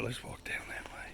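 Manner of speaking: breathy whispered aside to himself. Real, not acted. Vlogger muttering directions to himself as he walks, whispered. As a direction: drop to a whisper while walking.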